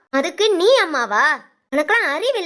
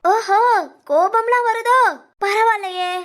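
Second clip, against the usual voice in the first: taunting, the pitch going higher; mocking; 3 semitones higher than usual. Mother taunts her daughter for getting angry, mocking and higher. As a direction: sneer at her anger.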